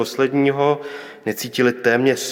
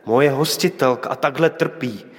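raised, pleading protest, short of a shout; crying out; 2 semitones higher than usual. Acted. Prophet protesting to God over the widow's son, restrained outcry. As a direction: cry out to God in mild outrage. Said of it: "I on křičí".

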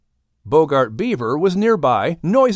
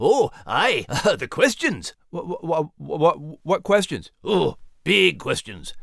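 mock-mysterious Scottish lad; teasing, drawn-out big questions; Max voice; 3 semitones higher than usual. Max teases the announcer about questions, playful Scottish lilt.

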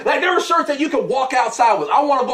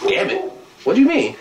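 mock girlfriend; 4 semitones higher than usual. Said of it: "and she said".

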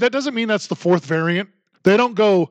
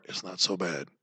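low, much softer shrug; mock dismissive voice; 14 semitones lower, 15 dB quieter than usual. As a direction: play it down, dropped and quiet. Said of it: "the contradictions from the left".

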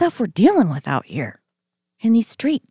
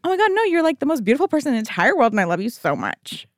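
gushing suitor; 3 semitones higher, faster than usual. Retold or imitated. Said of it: "I would want somebody to be like".

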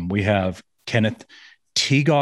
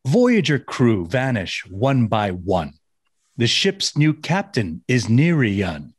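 limerick recital; slower than usual. Acted. Reads his episode limerick.

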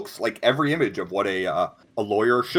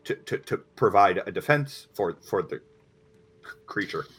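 alarmed, stammering uh-oh; nervous stuttering lawyer. Acted. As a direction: caught off guard, stumbling. Lawyer explains his job.

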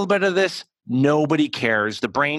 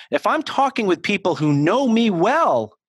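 usual speaking voice

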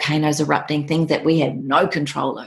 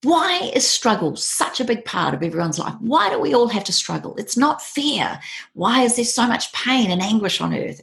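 higher, plaintive, pleading questions; 7 semitones higher than usual. Retold or imitated. Seeker to the monk, asking why life hurts, high and pleading. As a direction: beg for an answer, slowing on "It's not fair". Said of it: "And I said".

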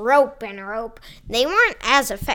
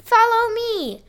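commanding call; 10 semitones higher, 3 dB louder than usual. Acted. Pizza Man leads the crew.

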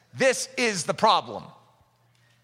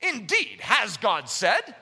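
serpent's question; much slower than usual. Retold or imitated. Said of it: "N A S B".

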